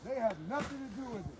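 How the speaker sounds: angry shout. Real, not acted. Man told to leave his camp.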